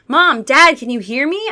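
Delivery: high, loud call through the door; boy pounds the door and shouts for parents; shouting to parents. Acted. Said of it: "I shouted".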